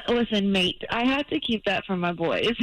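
put-on Australian accent; casual mock-Australian accent on request. Shown as a demonstration. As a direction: try out a fake Aussie accent. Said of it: "hear a little bit of your Australian accent".

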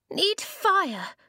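high small whimper; high childish whimper. A narrator's reading. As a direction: whine it like a cold little kid. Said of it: "Blue whimpered".

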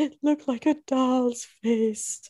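slow, deadpan imitation of bad acting; mock flat acting. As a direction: parrot the stiff line slowly, no feeling. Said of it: "Great acting again".

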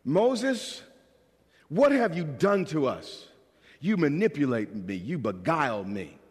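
mock accusing whine at Moses; a hint of griping people blaming their leader; whiny complaining Israelites.

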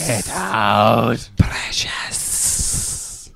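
whispering. Acted. Whispered movie-style line.

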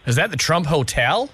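put-on American phone manner; American accent. Prank caller checks he reached the hotel, American accent. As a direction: ask in a fake American accent. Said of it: "talk to them in your American accent".

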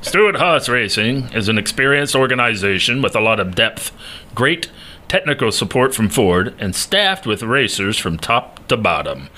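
booming announcer read. Acted. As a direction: read it like a fight night announcer. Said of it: "It's a classic announcer voice".

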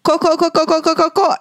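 rapid-fire repeated warning; mildly panicked retelling; desperate warning. Retold or imitated. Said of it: "começou a vir mais forte".

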